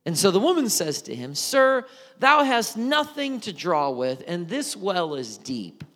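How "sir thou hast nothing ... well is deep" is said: sarcastic. Retold or imitated. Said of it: "Maybe just a little bit of sarcasm".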